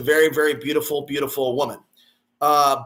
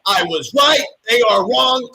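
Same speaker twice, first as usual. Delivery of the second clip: much higher and louder shout; 7 semitones higher, 7 dB louder than usual. Real, not acted. Gloating at his critics, shouting it out. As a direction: yell it back at them triumphantly.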